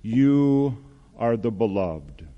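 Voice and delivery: slow, measured declaration of blessing; lightly voiced blessing, with room between phrases; God's loving voice. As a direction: speak slowly, as if bestowing a blessing. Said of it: "a voice that says".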